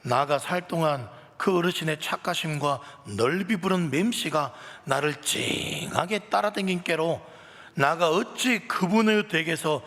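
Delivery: high, loud Jeolla dialect, exclaiming 아따; loud, chuckling Jeolla dialect recitation. Acted. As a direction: perform the psalm like an exuberant Jeolla local. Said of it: "전라도 버전 요것만 하겠습니다".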